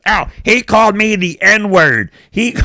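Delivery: slow, very high mock wail; drawn-out, high-pitched fake outcry. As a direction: mimic someone crying foul to onlookers. Imitates kid complaining to bystanders.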